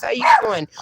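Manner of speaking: squeaky high greeting; excited squeal. Real, not acted. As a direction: squeal it out happily.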